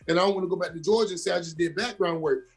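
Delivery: tearful pleading. Retold or imitated. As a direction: beg her through tears, words rushing. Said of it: "and I instantly start crying".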